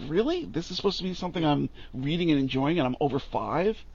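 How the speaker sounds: ordinary delivery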